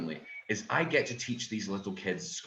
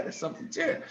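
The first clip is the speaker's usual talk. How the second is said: whispered aside; faster than usual. Acted. Whispered repeat of own line.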